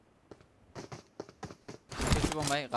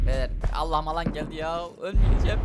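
rising panic; 3 semitones higher, 5 dB louder than usual. Real, not acted. Zone closing during fight.

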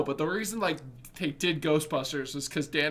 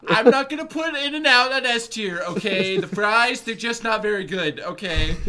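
loud, higher-pitched mock presidential voice; Obama impression; 6 semitones higher, 6 dB louder than usual. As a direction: push it out like a hammed-up Obama. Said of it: "gonna go for the Obama".

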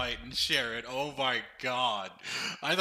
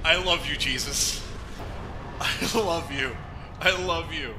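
elated gratitude; 2 semitones higher, 5 dB louder than usual. Real, not acted. Thanking summoned ally after win.

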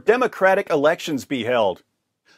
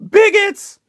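high, loud, slow drawn-out shriek; mock scream; 9 dB louder, much slower than usual. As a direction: stretch the shriek out like a panicked reporter. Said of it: "and screams".

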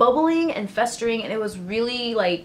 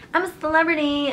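mock celebrity; 7 semitones higher, faster than usual. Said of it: "the celebrity girl who's like".

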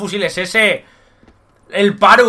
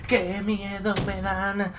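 slow mock dread; 8 dB quieter, much slower than usual. Shown as a demonstration.

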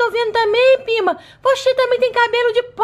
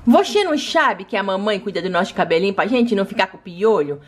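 other doll voice; 14 semitones lower than usual. Acted. Doll voice much lower.

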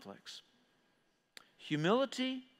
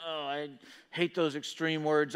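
mildly timid; 3 semitones lower than usual. Acted. Preacher voicing listeners uneasy with extreme words, mock timid. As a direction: shrink back a little, in mock timidity. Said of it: "get all timid".

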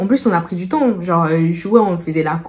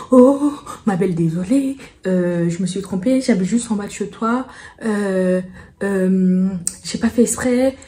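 imitating the neighbour. Narrator mimics the neighbour apologizing at her door, mocking sweetness. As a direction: lightly mimic an overly sweet neighbour saying sorry. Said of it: "je l'imite, hein".

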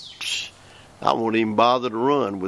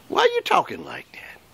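breathy hushed whisper, much higher. Pretend. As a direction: lean in and whisper it like a secret. Aside to the audience, mock hushed.

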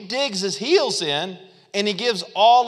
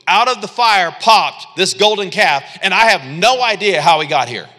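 louder, playing dumb; mock innocent Aaron; 5 dB louder than usual. Aaron to Moses, hammed-up cluelessness. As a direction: feign total innocence. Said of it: "And Aaron's like".

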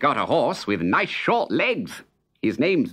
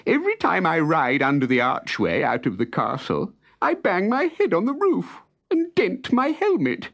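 tearful lament; 13 semitones higher than usual. Acted. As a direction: whine it through tears, much higher. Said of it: "sobbed the soldier".

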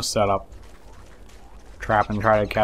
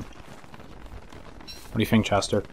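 slow, whispered question; soft whisper; 9 dB quieter, much slower than usual. Real, not acted. Gamer softly asking Chester the pet. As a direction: breathe it out slowly to the pet.

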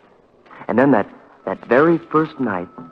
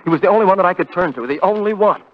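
panicked rush; 4 semitones higher, faster than usual. Acted. Panicked retelling of the call.

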